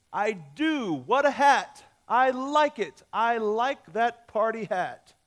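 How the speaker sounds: loud, high burst of enthusiasm; acted delight. Yellow dog finally approving the party hat, thrilled.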